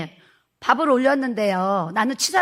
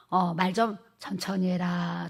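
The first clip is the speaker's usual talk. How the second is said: slow nagging; 3 semitones lower, 5 dB quieter, slower than usual. Retold or imitated. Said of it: "잔소리 엄청 많이 했어요".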